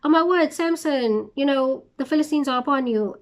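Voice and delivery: a hammed-up warning shout to Samson; mock alarm call. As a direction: play Delilah raising a fake alarm. She shouts and says.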